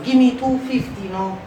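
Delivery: haggling vendor insisting; insistent vendor. Acted. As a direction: keep hammering the price. Vendor repeating price.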